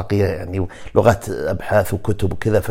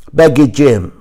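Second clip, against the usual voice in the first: Portuguese pronunciation; 4 semitones higher, 6 dB louder, slower than usual. Shown as a demonstration. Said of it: "البرتغالي".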